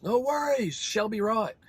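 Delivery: put-on high New Zealand accent running she'll be into Shelby; Kiwi reply. Rancher imitates both Kiwis saying it in unison, high New Zealand accent. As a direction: imitate two Kiwis answering together. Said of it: "they both goes".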